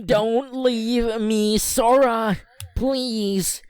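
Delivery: put-on high, slow pleading girl voice; Kairi voice. A narrator's reading. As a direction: cry out for Sora in a falsetto. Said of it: "Kairi shouted".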